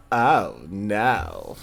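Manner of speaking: low, drawn-out "oh, no"; lightly mimicked catchphrase of dismay; overreacting friend catchphrase. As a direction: imitate a friend's dopey overreaction, slowly. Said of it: "used to always overreact to everything".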